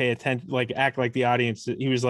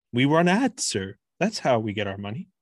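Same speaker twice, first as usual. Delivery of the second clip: put-on robotic tech-founder voice. Showing how he talked in an android audition: Mark Zuckerberg impression. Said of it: "you know how he kinda talks like this?".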